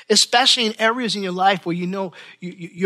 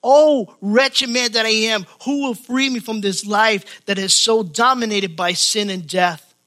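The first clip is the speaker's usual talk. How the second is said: moaning cry; 2 semitones higher than usual. Retold or imitated. Preacher voices Paul's plea for deliverance, moaning. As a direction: cry out like a man crushed by his sin. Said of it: "hear the moan in the Apostle Paul's voice".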